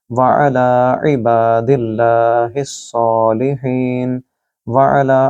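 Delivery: very slow, drawn-out tajweed line; slow recitation. Shown as a demonstration. Teacher demonstrating the full phrase, very slow recitation. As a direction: recite it slowly and evenly. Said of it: "आइन गले से और लाम को लंबा कीजिए".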